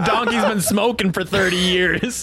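smoker donkey voice. Retold or imitated. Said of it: "It's me".

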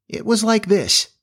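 high, lilting imitation attempt; imitating a crow. A narrator's reading. Wendy showing Jane how Peter's crow sounded, high imitation. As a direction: pitch it way up, attempting a crowing call. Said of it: "trying to imitate Peter's crow".

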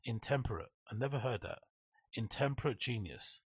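quiet puzzled repeats. Real, not acted. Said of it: "this person's using some mad word".

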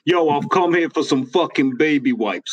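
mock tough American accent; Donnie. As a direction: imitate a mouthy American buddy's accent. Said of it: "Donnie who's kinda like".

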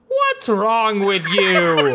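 slow drawn-out Goku delivery with a laugh; quoted Goku line. Retold or imitated. Retelling the episode to a cohost, mock Goku voice. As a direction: drag out the line, half laughing. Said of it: "The exact intonation".

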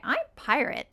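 a hint of a pet bird introducing itself; talking pet cockatiel. Owner imitates her cockatiel saying words she taught him, lightly mimicking the bird. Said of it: "and he would say".

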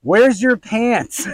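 can't believe what he sees; slow stunned question to his wife; disbelieving question. Retold or imitated. Shocked at missing pants.

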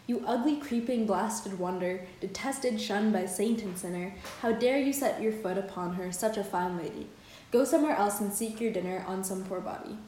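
measured reading of translated verse; poem recitation. Acted. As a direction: read the translated poem out line by line. Reads the poem's translation.

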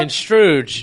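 construge said con-STROOJ; made-up word. Real, not acted. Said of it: "He said constru-, con-, what the fuck?".

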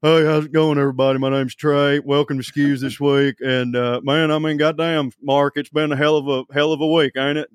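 a hint of Doctor Phil with a stuffed-up sinus; lightly voiced folksy podcast host; mild nasal-voiced down-home greeting; Trey impression. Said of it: "give Doctor Phil a sinus infection".

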